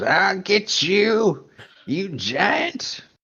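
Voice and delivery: very high, tiny, angry toy-soldier squeak. Voicing a tiny toy soldier parachuting down: tiny soldier man shaking his fist. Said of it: "shaking his fist at you and he goes".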